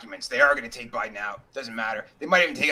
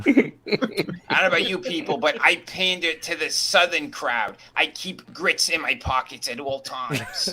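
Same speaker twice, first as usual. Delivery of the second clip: slow, put-on Southern drawl; unhurried mock Southern accent; slower than usual. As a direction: play the Southern panderer, drawing words out. Joking pander to Southern crowd.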